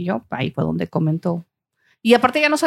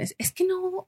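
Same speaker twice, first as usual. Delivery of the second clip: much higher, softer mock voice; high, breathy quoted doubt; imitating people; 13 semitones higher, 8 dB quieter than usual. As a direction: squeak it like the people who tell him. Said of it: "siempre me dicen".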